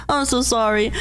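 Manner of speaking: whispered apology to the retainers. Acted. Vtuber whispering sorry to her fans. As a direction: breathe the apology out.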